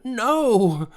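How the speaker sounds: a high, loud no; high creature voice shouting no; fierce shout. A narrator's reading. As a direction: cut her off sharply. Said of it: "fiercely, almost shouting".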